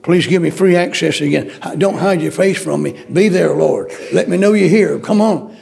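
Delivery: a preacher crying out to God in prayer; earnest pleading prayer. Acted. Preacher praying aloud to God, earnest pleading. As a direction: beg God not to turn away.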